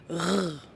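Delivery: "R" as a held French uvular rasp; R sound. Shown as a demonstration. Teacher showing the sound of R, sustained throat "rrr". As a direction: roll "rrr" in the throat, no letter name. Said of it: "produit le son".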